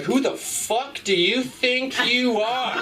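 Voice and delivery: high, slow, laughing outrage; mock indignation from the clerk; hammed-up high outraged clerk; indignant clerk.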